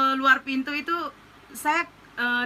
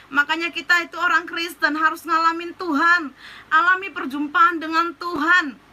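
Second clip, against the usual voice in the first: emphatic, raised exhortation; fervent preaching; 2 semitones higher than usual. Real, not acted. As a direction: urge the congregation with conviction. Exhorts the listeners with force.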